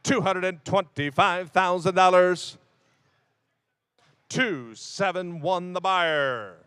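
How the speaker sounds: slow, announcing the sale; auctioneer call. Acted. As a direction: hammer it down like an auctioneer.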